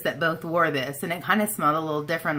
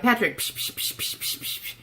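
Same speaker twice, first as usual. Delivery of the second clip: mock sniffing noises at Patrick, whispered; 6 semitones higher, 4 dB quieter than usual. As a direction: sniff him up like a bloodhound, jokingly. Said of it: "I'm like".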